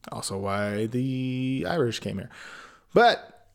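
ordinary talk

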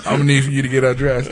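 fast, pushy repeat of the nurse's request; doubling down. Retold or imitated. Nurse repeating her request to the patient, fast and insistent. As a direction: rattle it off as she doubles down. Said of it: "she doubled down on it".

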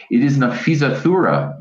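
high, urgent cry of recognition; a startled cry of recognition. A narrator's reading. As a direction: call out her name in alarm. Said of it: "Mister Falat cried".

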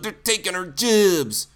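badly faked Cockney British accent. Host mimicking anti-immigrant complaint, poor Cockney accent. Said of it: "with a Cockney British accent".

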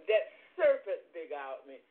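crying the words out, loud; tearful plea. Retold or imitated. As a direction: Eve sobbing her answer to God. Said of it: "She said".

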